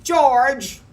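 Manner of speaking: high, very loud call; screeching. A narrator's reading. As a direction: screech the name to stop him dead. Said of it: "a high voice screeched".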